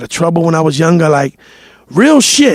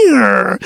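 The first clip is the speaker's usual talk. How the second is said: drawn-out creaking door noise; long vocal creak; imitated door creak; 2 semitones higher than usual. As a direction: mimic a door slowly edging open. Imitates door being edged open.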